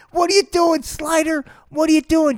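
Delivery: high, loud, panicked what are you doing; alarmed high yell. Acted. Startled bystander yelling.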